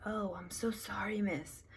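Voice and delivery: imitating an embarrassed man, whispered; mocking a sheepish apology in a whisper. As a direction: whisper the sorry like a sheepish guy caught cursing. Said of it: "it's like".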